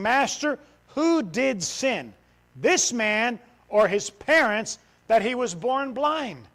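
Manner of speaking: loud, slow, pleading question to the master; disciples' question. Acted. Disciples asking Jesus, loud and slow. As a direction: read it out big and drawn-out.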